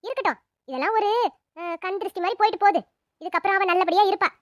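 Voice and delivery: firm consoling. Acted. Elder woman consoling family.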